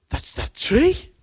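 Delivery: high, loud, slow amazed exclamation; astonished. Retold or imitated. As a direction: stretch it out in disbelief. Peter sees the withered tree.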